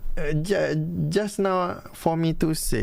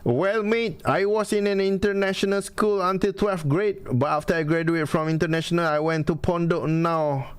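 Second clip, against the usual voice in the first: lightly put-on British accent with mate; a playful hint of British English; mock British accent; 4 semitones higher than usual. Joking about his British English, a light mock British accent. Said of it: "habis British".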